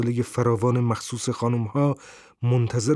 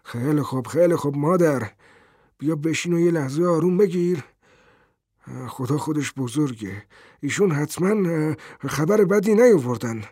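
hurried soothing; 4 semitones higher than usual. A narrator's reading. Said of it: "با شتاب میان حرف همسرش دوید".

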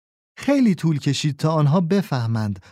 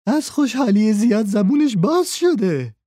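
gruff thief; 7 semitones higher than usual. A narrator's reading. Thief making excuses.

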